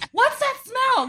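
high-pitched calling through the house; mimicked kid's high query; imitating kids calling out. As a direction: pipe up high, like a kid asking. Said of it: "I heard all three of them".

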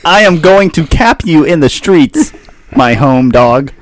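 street thug. Retold or imitated. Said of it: "Albion thug".

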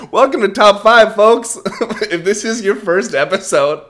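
loud, very high welcome to listeners; hyped show intro. Pretend. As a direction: belt out the podcast opening with over-the-top energy. Mock-hyped show opening welcome.

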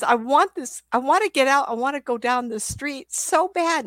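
high, insistent doggy begging; eager dog's voice. Acted. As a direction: voice a dog desperate to get out. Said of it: "And he says".

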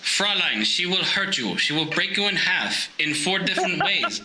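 mock German accent slipping toward Russian; ominous German-Russian accented threat; German drifting to Russian. German warning what the Fräulein will do, wobbly German-Russian accent. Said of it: "starting to sound like a fucking Russian somehow".

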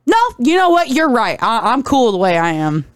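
mildly indignant refusal, starting high and settling; Electro. Retold or imitated. Retelling Electro turning down the fix, mock upset. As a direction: start on a high "No", then ease down. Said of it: "Electro is already kind of upset".

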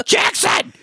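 high hammed-up action-hero French accent; mock French accent building to a drawn-out shout; bad French accent. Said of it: "Him trying to do a French accent".

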